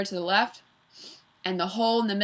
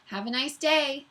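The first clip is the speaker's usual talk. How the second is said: put-on stolen girl voice; 6 semitones higher than usual. A narrator's reading. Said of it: "said Kathy's voice".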